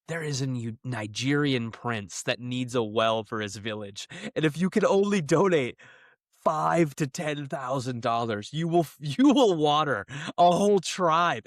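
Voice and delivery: slow, hammed-up scammer pitch, voice put on; reading a fake prince's plea, slowly and grandly; mock scam prince. Mock Nigerian prince scam email.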